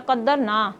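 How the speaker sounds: قدرنا read qaddarna, with a short a after the n and no long vowel; the feminine reading of قدرنا, qaddarna with a short final a. Shown as a demonstration. Teacher shows the short-vowel form of قدرنا, the ending na kept short. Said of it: "جب نون کے اوپر صرف زبر ہے".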